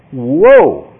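high, loud cry of shock. Acted. People reading Paul's letter, in shock. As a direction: recoil in astonishment. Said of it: "these people are just in shock".

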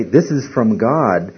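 "This is from God" said slowly, stressing "This"; a teacher slowly demonstrating the reading; slow, deliberate quote. Shown as a demonstration. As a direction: lay the phrase out word by word. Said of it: "if I say".

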